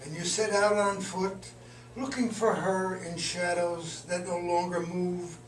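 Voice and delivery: measured, deliberate poetry recital; poem reading. Acted. Poet reads a poem just finished today, measured recital. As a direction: read it line by line, pausing between phrases.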